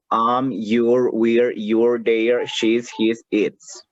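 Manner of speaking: "you're" and "we're" fused into single syllables; teacher modelling English contractions; contracted forms. Shown as a demonstration. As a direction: run each contraction together quickly. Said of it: "de la manera contraída o con contracción".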